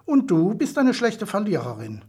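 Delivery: cheeky retort with a smile; mischievous grin. Acted. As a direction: needle her playfully. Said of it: "mit schelmischem Grinsen".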